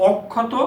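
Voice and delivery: অক্ষত said as "ওক্খতো", first vowel o, doubled kh; model pronunciation. Shown as a demonstration. Teacher models অক্ষত for students, o sound. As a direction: say অক্ষত with an o and a long kh. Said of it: "উচ্চারণ হবে অক্ষত হিসাবে".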